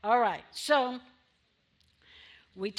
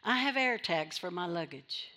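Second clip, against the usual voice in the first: normal talking voice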